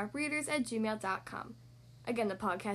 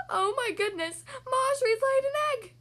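high, loud exclamation; astonished cry; 12 semitones higher, 6 dB louder than usual. A narrator's reading. Farmer runs in to find an egg, astonished cry. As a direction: cry out in amazement, building louder. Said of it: "he cried".

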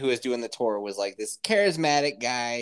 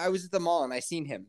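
mocking careless speaker; 2 semitones higher, 6 dB quieter, faster than usual. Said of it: "people who say seen".

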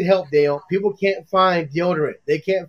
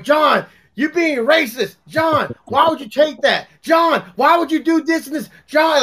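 mock scolding; 4 semitones higher than usual. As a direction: imitate an exasperated brother telling John off. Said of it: "I love getting yelled at every day".

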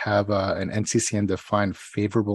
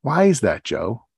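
puzzled question, pitched up on "why"; confused; 3 semitones higher, 4 dB louder, slower than usual. Retold or imitated. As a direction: imitate a baffled neighbor asking why. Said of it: "like, confused look, and she goes".

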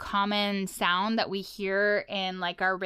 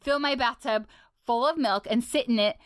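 Ice King diary. Retold or imitated. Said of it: "share what some of the stuff is that you'll hear".

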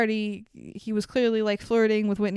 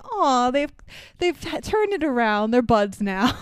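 mock gushing; 3 semitones higher than usual. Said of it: "And it's like".

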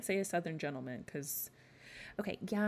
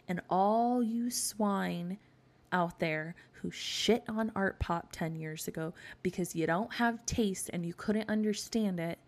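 indignant scolding; 2 semitones higher, 5 dB louder than usual. Real, not acted. Mock scolding of album's critics.

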